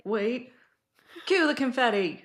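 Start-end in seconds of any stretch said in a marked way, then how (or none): 1.2-2.2 laughing cheer. Real, not acted. Mock celebration.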